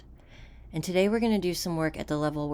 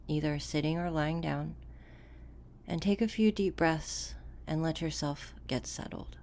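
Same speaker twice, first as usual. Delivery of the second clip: softer, unhurried delivery with long pauses; guided meditation; 5 dB quieter than usual. Acted. Coach guiding listeners to settle into the body, calm guided meditation. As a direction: guide a listener calmly inward, leaving room between phrases.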